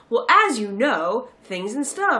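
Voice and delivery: slow, lightly hammed-up exposition voice; mock exposition. Mocking the bad script's dialogue, mock exposition. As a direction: lean into clunky scripted exposition, slowly. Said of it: "did the exposition thing".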